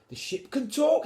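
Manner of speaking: squeaky high amazed cry, loud; high, loud child's astonishment. Acted. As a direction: gasp out the wonder of it. Henry amazed at talking ship.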